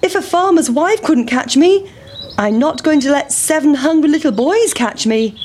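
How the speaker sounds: high, taunting pancake; high cocky pancake taunt. Acted. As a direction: boast as you roll away. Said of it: "said the big pancake".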